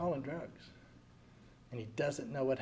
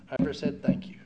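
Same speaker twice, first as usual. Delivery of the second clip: whispered confession; 4 dB louder than usual. Retold or imitated. Reading his own note.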